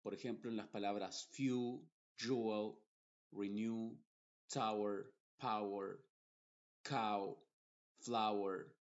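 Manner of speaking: few, power, draw read with no separate W sound; English EW, OW, AW words. Shown as a demonstration. Teacher models silent W in few, cow, draw. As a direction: let the W melt into the vowel. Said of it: "esa W nunca se va a pronunciar".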